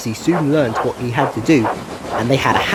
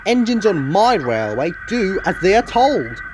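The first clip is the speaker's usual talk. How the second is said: severe; 5 semitones higher than usual. Acted. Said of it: "said the Fat Controller severely".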